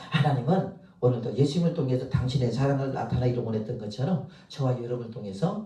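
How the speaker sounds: normal talking voice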